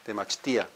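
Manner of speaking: "Temachtia" softly modeled as te-mach-TEE-a; "Temachtia" with I held apart from A; accent on the I. Shown as a demonstration. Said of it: "Sounds like an accent on the I".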